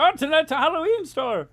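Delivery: high, loud, fast gasp of fake dismay; mock shock. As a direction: play up the horror of the swap. Mock shock at store replacing park.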